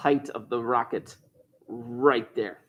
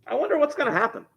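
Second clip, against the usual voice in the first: mock wonder; 14 semitones higher, faster than usual. Mock wonder before answer.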